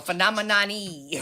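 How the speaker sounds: "phenomenon" with an extra EE tacked on the end; mock the botched "phenomenon E", ending in EE; mispronounced phenomenon. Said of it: "then he thought it was wrong".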